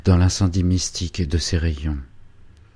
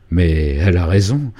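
exclaiming; 5 dB louder than usual. Acted. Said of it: "s'écria Hubert".

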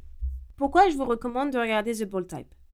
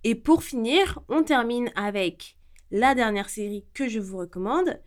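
normal talking voice

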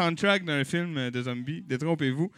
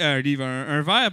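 ordinary delivery

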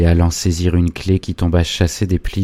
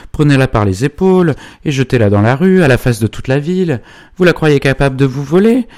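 indignant outburst, high and loud; angry tirade; 7 semitones higher, 5 dB louder than usual. A narrator's reading. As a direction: rail at them in outrage, pitch climbing. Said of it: "stupéfaites de la colérique allocution de Bongrand". (tirade colérique et indignée)

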